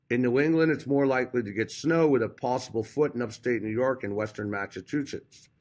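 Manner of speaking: speech thickened by a dental retainer; wearing a retainer. Real, not acted. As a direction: talk around a retainer in the mouth. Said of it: "I have this retainer in my mouth".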